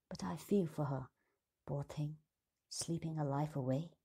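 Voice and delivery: gentle, hushed sympathy; soft pity. Acted. The queen pitying the sleeping girl, hushed and gentle. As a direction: feel for the sleeping girl softly.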